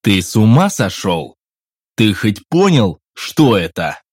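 loud outraged protest; indignant. A narrator's reading. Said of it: "возмутился Генри". (возмущённо)

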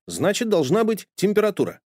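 high, stressed должна rising then falling; high boyish должна deduction; reasoning boy. A narrator's reading. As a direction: lean on должна thinking aloud.

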